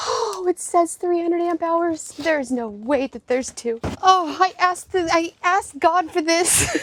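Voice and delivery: awed disbelief, voice climbing; amazed. Real, not acted. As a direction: marvel at each word, stunned. Overwhelmed unboxing gift.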